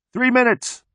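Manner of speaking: high, held time call; yelling from afar. A narrator's reading. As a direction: call the time as if from far away. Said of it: "far away yells".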